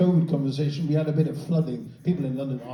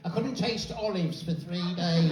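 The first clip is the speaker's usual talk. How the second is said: tedious complaint; 5 dB quieter, slower than usual. Acted. First take of overheard line.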